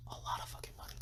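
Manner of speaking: very soft, voiceless emphasis; whispered aside. Real, not acted. Hushed aside on huge loss.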